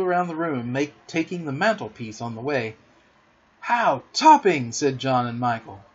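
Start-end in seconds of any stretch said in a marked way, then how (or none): 3.6-4.7 put-on loud, drawn-out boyish delight; admiring exclamation. A narrator's reading. John and Michael cheer Peter's flying, admiring exclamation. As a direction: marvel slowly, pitched up.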